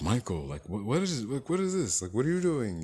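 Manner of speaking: startled mom, voice rising; alarmed parent catching her son; shocked parent. Retold or imitated.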